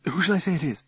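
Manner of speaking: high-pitched Oxford politeness; posh Oxford accent. A narrator's reading. Figgy asking the visitor's name, posh Oxford accent. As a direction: ask nervously in posh Oxford tones. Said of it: "in his posh Oxford accent".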